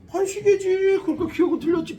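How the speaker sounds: loud, high sneer at a wrong answer; mocking jab. Real, not acted. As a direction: toss the answer back with a scoff. Teacher mocking a student's answer.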